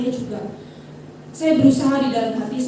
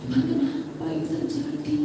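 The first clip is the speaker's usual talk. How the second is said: plaintive why; 3 semitones higher, 7 dB quieter than usual. Retold or imitated. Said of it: "lalu kita mulai".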